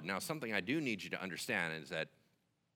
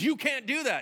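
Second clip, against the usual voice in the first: high, loud objection; acted, forceful refusal; emphatic protest; 8 dB louder than usual. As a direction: push back loudly, pitched up. Moses protesting to God.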